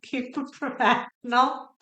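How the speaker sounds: laughing at herself while scolding. Real, not acted. Tarot reader reining in her tears, laughing. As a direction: giggle through the self-reminder to stay serious.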